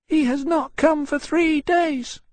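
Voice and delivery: high, slow, forlorn small-dragon voice; sad little dragon. A narrator's reading. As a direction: lament it loudly in a tiny dragon's high voice. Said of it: "the Winchester said sadly".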